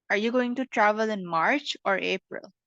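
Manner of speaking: rising first option, falling second; teacher shows a choice question; choice question tune. Shown as a demonstration. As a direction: rise on "March", fall on "April". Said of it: "the first one, you put more emphasis on".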